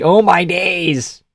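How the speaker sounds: high, drawn-out mock posh British; posh British accent. Streamer showing chat the catchphrase, mock posh British. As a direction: put on a posh British exclamation. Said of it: "in a posh Brit".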